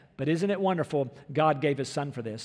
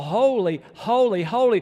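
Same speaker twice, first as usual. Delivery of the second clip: crying out; 3 semitones higher, 5 dB louder than usual. Retold or imitated. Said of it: "the angels were crying out".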